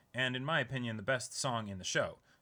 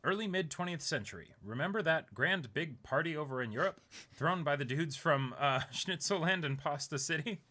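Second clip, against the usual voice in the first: jokey storyteller voice, a bit louder; playful mock history; 5 semitones higher, 4 dB louder than usual. Host jokes to co-host about history, playfully. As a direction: ham up the history lesson for laughs.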